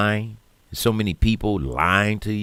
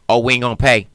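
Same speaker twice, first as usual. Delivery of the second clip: louder, higher sneering mock of the fools; mocking quote; 6 semitones higher, 8 dB louder, faster than usual. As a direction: toss it off like a careless excuse. Mocking the non-paying fools.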